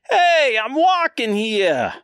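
high, indignant New York holler; New York accent. Acted. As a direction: protest like an offended New Yorker, accent and all. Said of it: "they all have that accent".

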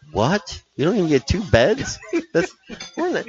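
indignant disbelief. Retold or imitated. Outraged at one shared bed.

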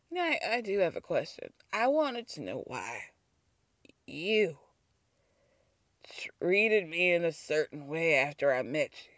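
lightly Southern, low and soft retelling; low, halting quote with a hint of Southern; Southern accent. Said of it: "I'm doing the Southern accent".

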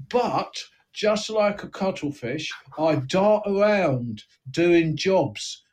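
a small crook explaining his nickname, lightly voiced; East End gangster. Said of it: "you've allegedly got an East End accent".

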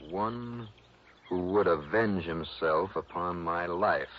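slow, lofty Shakespearean reading; grand tragic wailing. Acted. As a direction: ham it up like an old stage actor. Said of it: "Sounds like an old Shakespearean actor".

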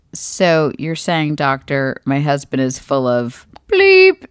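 slow, deliberate question to a doctor; retold incredulous question. Wife checking the doctor's diagnosis of her husband, slow and deliberate. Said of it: "I looked at the doctor and I was like".

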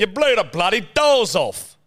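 Michael Caine. Acted. Quoting the actor's famous line, hammed-up cockney impression. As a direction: deliver the catchphrase as a mock cockney. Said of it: "You sound more like Michael Caine".

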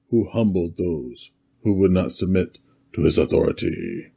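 grand proclaiming of royal titles; a lightly played ancient tyrant, announcing himself; Mesopotamian dictator voice. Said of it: "best Mesopotamian dictator voice".

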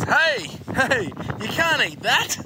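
put-on high little-kid voice telling off; mimicking the toddler scolding the TV; imitating a toddler. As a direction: squeak it like a three-year-old. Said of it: "young Codes goes".

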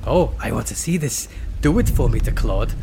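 put-on very loose, eager German accent; comic German accent. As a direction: urge a pal on in mock German. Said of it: "I'm doing a very loose German accent".

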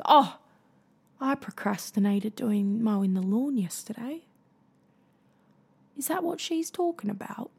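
put-on light British accent on a doubting listener; a hint of a British accent, half-joking; mock British accent. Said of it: "I don't know why you'd be British".

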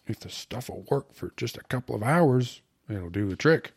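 lightly acted, lively schemer; eager slangy suitor. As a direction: play a slangy fellow confiding his plan. Voices story character Chunk.

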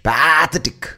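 Pathetic stressed up front, "PAA-thetic", high and loud; Indian pronunciation of Pathetic. Shown as a demonstration. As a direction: stretch the first vowel of Pathetic, high. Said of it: "when we mispronounce it".

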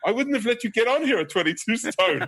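lightly hammed high woman's voice; instructor woman. Instructor scolding him mid-abseil, mock high woman's voice. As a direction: keep her scolding voice pitched high. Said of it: "And she went".

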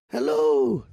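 mock creepy caller. Prank caller at one A M.

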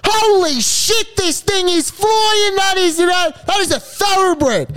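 high, shouting finish of a race call; excited race caller. Acted. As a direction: call the home straight at full cry. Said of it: "if that call didn't impress you".

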